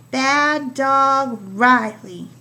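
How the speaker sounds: teacher reading the finished speech bubble aloud; slow loud read-back. Shown as a demonstration. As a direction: read "Bad dog Riley" back slowly and firmly. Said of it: "So now I've got my sentence".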